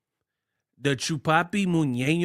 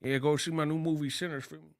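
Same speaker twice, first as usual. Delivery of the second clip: Coogler voice; 7 dB quieter, faster than usual. Retold or imitated. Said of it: "he be in the".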